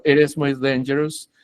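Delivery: "it is" linked with a tapped t; fast-speech flap. Shown as a demonstration. Teacher says "hablo rápido" and demonstrates, flapped T. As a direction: run "it is" together like "iris". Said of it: "yo hablo rápido y digo".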